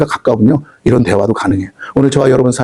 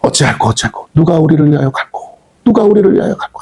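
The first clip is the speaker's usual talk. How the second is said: imitated fretful complaint. Preacher voices God fretting before Isaiah, plaintive complaint. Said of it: "투정을 하세요".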